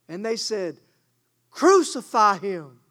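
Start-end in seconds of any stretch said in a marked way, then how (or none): 1.5-2.8 crowd's answer. Retold or imitated.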